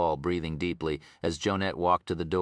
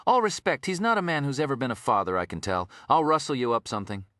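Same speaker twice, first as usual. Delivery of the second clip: lightly voiced kind detective; 7 semitones higher than usual. Detective offering to get lunch.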